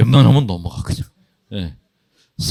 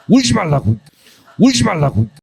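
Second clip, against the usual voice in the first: loud, high mock outburst; hammed-up fed-up yell, pitched high; exasperated scolding; 6 semitones higher, 4 dB louder than usual. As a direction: snap it out as an exasperated retort. Retold exasperated scolding of weepers.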